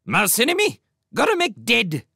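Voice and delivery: high, loud bird screech; angry sparrow king. A narrator's reading. Sparrow king rejects the mother's plea, screeching angrily. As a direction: screech back, refusing to be convinced. Unconvinced king insists on killing.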